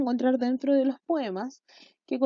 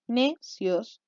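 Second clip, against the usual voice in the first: "Necios" split into two syllables, ne, cios; "Necios" broken in two for counting. Shown as a demonstration. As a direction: pause between the syllables of "Necios". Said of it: "dos sílabas".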